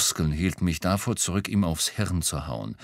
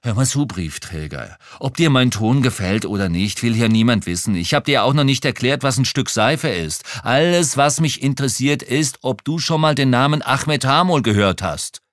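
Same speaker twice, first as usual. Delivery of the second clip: hissed threat; 5 semitones higher, 6 dB louder than usual. Acted.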